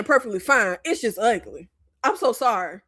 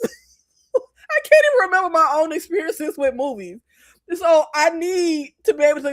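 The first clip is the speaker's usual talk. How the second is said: higher, starting in real laughter; laughing admission; 4 semitones higher than usual. Real, not acted. Admitting a bad memory for movies, laughing admission. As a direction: laugh helplessly into the words.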